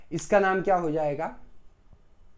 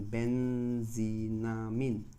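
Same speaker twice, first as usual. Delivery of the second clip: "बेंजीनामीन" stretched out slowly, syllable by syllable, a little lower; slow spelled-out name; 4 semitones lower, 4 dB quieter, much slower than usual. Shown as a demonstration. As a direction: draw "बेंजीनामीन" out slowly so students catch each part. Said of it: "बेंजीन में एमीन लगा दिया".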